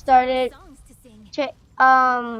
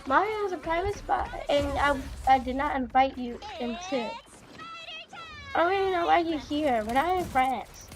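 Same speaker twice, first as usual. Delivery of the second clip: June's mild yell; 5 semitones higher, 4 dB quieter, faster than usual. Acted. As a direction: protest in a high voice without really shouting. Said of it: "June yelled at Olivia and said".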